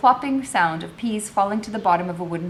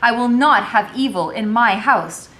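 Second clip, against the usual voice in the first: stern mistress; 4 semitones higher, 6 dB louder than usual. A narrator's reading. Madam scolding, voiced.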